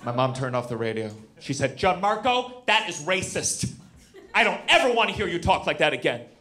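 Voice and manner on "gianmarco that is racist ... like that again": lightly voiced stern mom; a mild, measured telling-off of a child; scolding mother.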